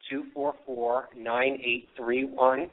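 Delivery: hoarse voice cracking on the numbers. Real, not acted. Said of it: "I'm losing my voice".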